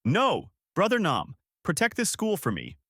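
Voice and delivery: high-pitched pleading call; restrained shout of protest; mild shout. A narrator's reading.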